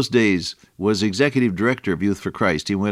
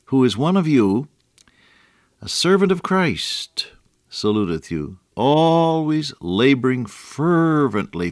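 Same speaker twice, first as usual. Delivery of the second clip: solemn, deliberate reading of the King James text; scripture reading. Acted. Reads scripture aloud.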